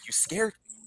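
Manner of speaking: put-on small, high, soft child's voice; scared child, imitated. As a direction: imitate a daughter's hushed, high-pitched complaint. Retold scared young daughter confronting dad.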